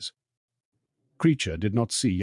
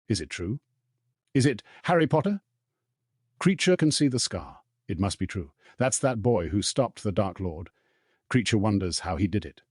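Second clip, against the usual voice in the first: elf muttering. Acted. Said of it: "Creature was still muttering".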